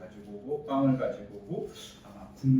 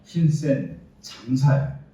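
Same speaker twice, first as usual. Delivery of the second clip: mighty warrior call; 7 dB louder, much slower than usual. Acted. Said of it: "이렇게 얘기합니다".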